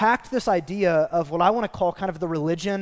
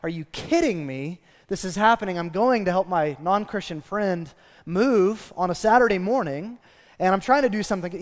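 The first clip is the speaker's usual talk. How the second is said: retold annoyance; 2 semitones higher than usual. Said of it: "I can just sense in my, like".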